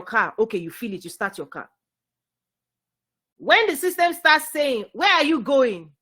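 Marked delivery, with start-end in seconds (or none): 4.9-5.9 loud, slow, high questioning; raised voice, slow demanding question; acted challenge. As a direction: challenge them loudly, drawing it out. Voicing the system questioning you.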